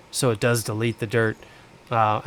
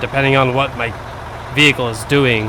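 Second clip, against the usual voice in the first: loud voice raised over engine noise; shouting over machinery; 4 dB louder than usual. Real, not acted. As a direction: yell it over the motor. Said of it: "I'll stop yelling over the engine".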